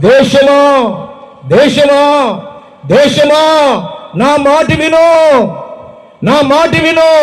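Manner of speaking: God's lament: my people, hear me; voice of God calling. Acted.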